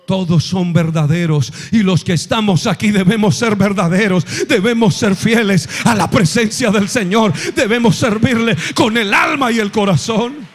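loud, urgent exhortation; full-force preaching. Acted. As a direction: drive it home to the church. Exhorting congregation loudly.

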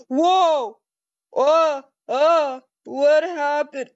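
loud shocked yelp of alarm; startled. Acted. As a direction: yelp as if suddenly falling. Character falls into ball pit.

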